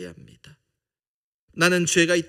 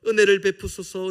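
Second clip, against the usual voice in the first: crying out; 9 dB louder than usual. Retold or imitated. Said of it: "부르짖는 것처럼".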